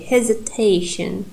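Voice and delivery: "Hesitation" with main stress on TA; stress on third syllable. Shown as a demonstration. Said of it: "third syllable is primary".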